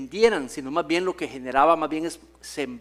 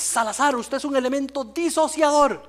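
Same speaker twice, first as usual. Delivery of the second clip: higher-pitched scolding friar, mildly imitated; stern friar; 7 semitones higher than usual. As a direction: play the friar rebuking a boy. Fraile lo reprende en público. (fraile regañando, imitado con suavidad)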